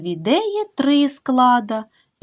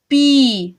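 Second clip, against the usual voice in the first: "Пі-ра-мі-да" split into four beats; "Пі-ра-мі-да" in separated syllables; 4 semitones higher, 4 dB louder, much faster than usual. Shown as a demonstration. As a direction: tap out "Пі-ра-мі-да". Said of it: "чотири склади".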